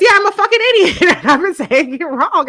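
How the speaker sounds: loud, high-pitched self-mocking outburst; comic reenacted self-disgust; exasperated realization. Acts out her realization.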